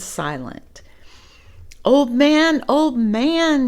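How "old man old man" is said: put-on high, loud calling boy; shouting. Chang calling to the old man, high and loud. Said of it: "shouted Chang".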